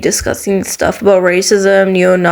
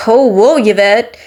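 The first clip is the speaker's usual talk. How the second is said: imagined puzzled viewer; slower than usual. Pretend. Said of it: "watching this and be like".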